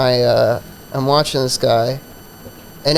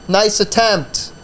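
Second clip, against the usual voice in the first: sarcastic heckle; 5 semitones higher, slower than usual. Retold or imitated. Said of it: "So I yell out from the back".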